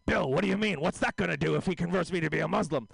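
N=George Burns/public; George Burns impression. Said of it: "Jeffrey Epstein sounds like George Burns".

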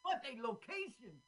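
put-on Swedish accent. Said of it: "Trying to do their Swedish accent".

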